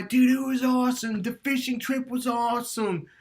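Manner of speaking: hammed-up dude voice; mock excited guy. A guy back from Hawaii telling his wife, mock excited.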